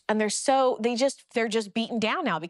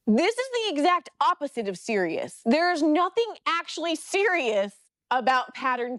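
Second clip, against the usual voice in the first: pitched up, emphatic objection; indignant challenge; 6 semitones higher than usual. Retold or imitated. Churchgoer publicly contradicting bishop about tights, indignant. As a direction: stand up and contradict firmly.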